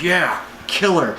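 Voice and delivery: slow, off-hand villain line; mock Thanos. Thanos to Star-Lord, slow mock villain. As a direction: drop it slowly like a villain. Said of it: "And he's like".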